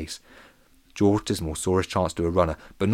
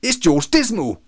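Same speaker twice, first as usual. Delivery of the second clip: put-on high, loud child's accusing shout; Harry Basher; 9 semitones higher, 6 dB louder, slower than usual. A narrator's reading. Little boy names George as thief, shouting. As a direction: call out the culprit, drawn out. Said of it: "shouted little Harry Basher".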